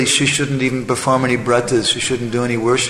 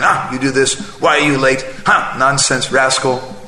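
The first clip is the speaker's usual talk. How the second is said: mock scolding wife. Wife beating her husband with a stick, mock angry scolding. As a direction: scold him like a shrewish wife.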